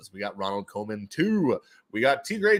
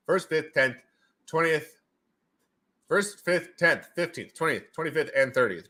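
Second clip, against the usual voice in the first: robot voice; 4 semitones higher than usual. Retold or imitated. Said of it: "a guy who talks like this".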